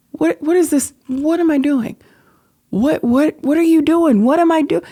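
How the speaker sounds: high, loud, frantic self-questioning; arguing with herself. Retold or imitated. Grieving mother reenacting arguing with herself in the bathroom, frantic and loud. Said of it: "I literally am arguing with myself".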